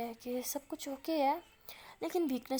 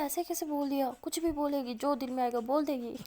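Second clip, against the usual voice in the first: higher-pitched mock outrage; indignant complaint, voice lifted; acted indignation; 3 semitones higher, 3 dB louder than usual. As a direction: retort in a retold huff. Indignant retort about the doctor.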